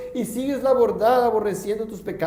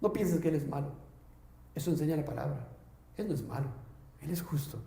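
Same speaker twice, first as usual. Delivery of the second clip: put-on grave, measured reading of an old sermon; 3 semitones lower than usual. Preacher reading old sermon to congregation, grave. Reads Edwards sermon aloud.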